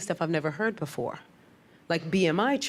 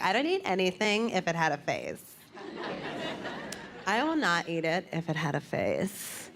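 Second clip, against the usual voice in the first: preachy moral vegetarian; 5 dB quieter than usual. Retold or imitated. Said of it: "people that would lecture you".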